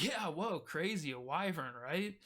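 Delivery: swooping, mock-amazed banter; chuckling to cope. Guards coping with talk of a wyvern, chuckling it off. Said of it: "chuckling as maybe their means of coping".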